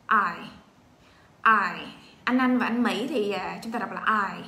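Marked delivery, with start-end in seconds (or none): 0.1-1.9 loud letter drill. Shown as a demonstration.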